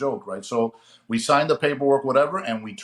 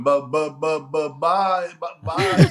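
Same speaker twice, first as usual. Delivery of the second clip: a stuttered goodbye that climbs to a much higher, louder squeak; mock stutter; 4 semitones higher, 5 dB louder, slower than usual. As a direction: stammer the bye, rising sharply at the end. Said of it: "I can hear Chippy going".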